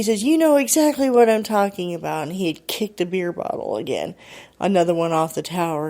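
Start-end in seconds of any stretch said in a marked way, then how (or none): 0.2-2.3 higher-pitched accusing retort; heated mock accusation; retold anger. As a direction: imitate an angry man's accusation, pitch lifted. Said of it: "started getting angry with her".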